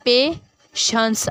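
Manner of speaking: "पेशेंस" slowly as पे, शंस; syllabic division. Shown as a demonstration. Teacher dividing the word, "पेशेंस" in two slow beats. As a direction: put a long gap between पे and शंस in "पेशेंस". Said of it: "पे और ये शंस".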